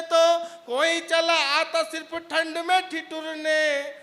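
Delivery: slow, full stage recital building up; poem recitation. Acted. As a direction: declaim the verse, rising then easing. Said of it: "आपका आनंद पहुँच जाए".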